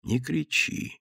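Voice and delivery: stern hush. Acted. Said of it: "оборвал его Василий Иванович".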